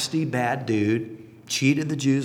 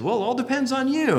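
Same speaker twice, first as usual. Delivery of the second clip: father replying; 11 semitones higher than usual. Retold or imitated. Father answering son.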